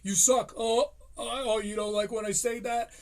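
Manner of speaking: hammed-up comic lashing out at the audience; mocking defensive rant. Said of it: "then he goes".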